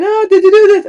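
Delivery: high, loud call from another room; mock shout, pitched right up; imitated shouting. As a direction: mimic grandma hollering from the kitchen. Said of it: "she's shouting from the kitchen".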